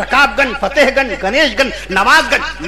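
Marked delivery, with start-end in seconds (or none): 1.9-2.7 नवाजगंज said with a clear short a, na-waaz-ganj; correct pronunciation. Shown as a demonstration. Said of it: "सही तलफ़्फ़ुज़ है नवाजगंज".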